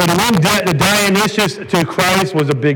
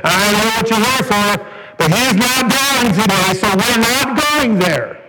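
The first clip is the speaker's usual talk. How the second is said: retold confrontation, higher and slow; firm refusal; 5 semitones higher than usual. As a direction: draw out a firm refusal, pitched up. Sister blocks him in the hallway.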